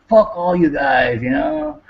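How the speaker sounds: half-hearted angry shout at the family; retold yell.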